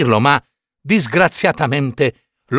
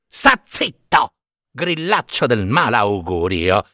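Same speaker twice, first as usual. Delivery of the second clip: angry shout; 3 semitones lower than usual. Acted. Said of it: "gridò Pinocchio".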